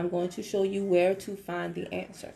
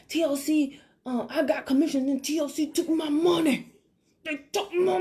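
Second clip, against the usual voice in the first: mock whiny complaint, higher and louder, slowing at the end; whiny confused member; 6 semitones higher, 4 dB louder than usual. Imitating a member complaining the company took her money, whiny. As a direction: play the upset member who thinks she was robbed. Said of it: "They be like".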